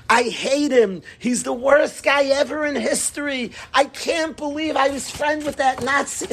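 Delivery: mildly acted high-pitched angry rant; a touch of outrage, pitch climbing; fed-up kid. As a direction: complain like a kid who's had it. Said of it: "He's had it".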